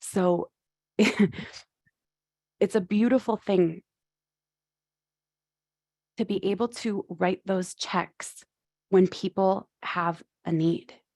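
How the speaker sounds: trying not to cry, holding back tears. Speaker talking about writing checks for people in need, holding back tears. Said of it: "I'm trying not to cry".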